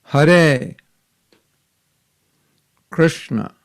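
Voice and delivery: Hare with a light tapped R, clear and slow; teaching pronunciation. Shown as a demonstration. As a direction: say Hare for the class to repeat. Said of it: "you pronounce it after me".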